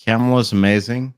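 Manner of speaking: slightly slurred, tipsy speech; words running together a little; slurring words. Real, not acted. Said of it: "you're drunk, you're slurring your words".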